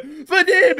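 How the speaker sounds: high, loud mock shout; imitated yell. Replaying the soldier's warning to his friend, high imitated yell. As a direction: call out the name in comic alarm. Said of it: "this guy yells out".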